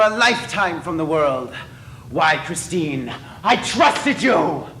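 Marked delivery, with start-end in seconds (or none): 3.4-4.7 hurt accusation. Acted. Eric accuses Christine of betrayal.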